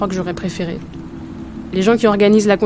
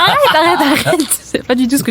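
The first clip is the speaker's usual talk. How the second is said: protesting; 7 semitones higher, 3 dB louder than usual. Acted. Protesting friend's teasing.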